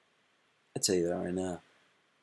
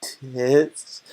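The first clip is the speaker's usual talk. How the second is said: louder, higher, slow and pleading; eager girl voice; 4 semitones higher, 5 dB louder, much slower than usual. Retold or imitated. Streamer acting the girl asking the guy, eager put-on voice. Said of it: "And she goes".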